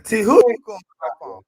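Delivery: high, loud playful call-out; teasing call. Real, not acted. Friend joining the stream, loud teasing greeting. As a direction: bust in laughing at her rant. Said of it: "friend joins, teasing".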